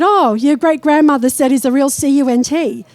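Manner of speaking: spelling out "C U N T" letter by letter, C, U, N, T. Retold or imitated. A medium coyly spelling out "C U N T" for the audience, letter by letter. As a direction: spell "C U N T" as separate letters instead of saying the word. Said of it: "I don't know why I'm spelling it".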